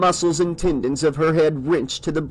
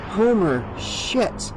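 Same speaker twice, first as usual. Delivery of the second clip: relieved; 5 semitones higher, much slower than usual. Acted. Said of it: "her voice full of relief".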